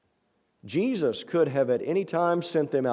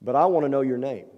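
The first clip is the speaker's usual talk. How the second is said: firm telling; 3 dB louder than usual. Acted. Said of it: "I think he's telling him".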